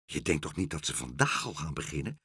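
low, hushed anxious question. A narrator's reading. Meneer Pen asks whether they begin today, anxious. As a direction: ask softly, dreading the answer. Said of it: "vroeg meneer Pen angstig".

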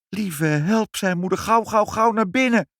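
high, hurried urging; urgent mother. Acted. Mother hurries the family into the smoky hall, high and urgent. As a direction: hurry everyone inside.

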